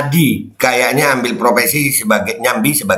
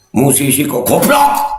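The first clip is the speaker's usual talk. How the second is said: slow, with "goblok" punched out; stress on capitalised word; slower than usual. Shown as a demonstration. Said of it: "Kalau ditulis besar itu ngomongnya agak keras". (tekanan keras pada kata "goblok")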